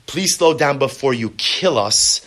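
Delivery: sharp, blaming demand; accusing attack. Shown as a demonstration. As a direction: throw it at him like an accusation. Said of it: "is a condemnation, is an attack".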